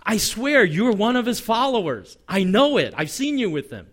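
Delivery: mock confrontation, sure of the culprit; acted accusation. Second accuser confronts Peter.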